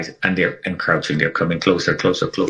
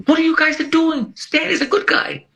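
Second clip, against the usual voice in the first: much higher, calling out to stop them; alarmed intervention. Retold or imitated. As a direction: break up the fight, pitched up high. Greg intervening in the scuffle.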